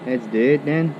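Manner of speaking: ordinary talk, nothing marked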